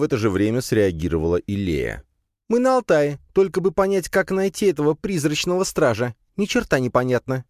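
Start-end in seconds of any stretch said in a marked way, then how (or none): 2.5-7.4 high spider voice, blurting with annoyance; quick, vexed squeaky spider; blurted in annoyance. Acted. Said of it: "с досады выпалила паучиха". (высоким голоском, с досадой)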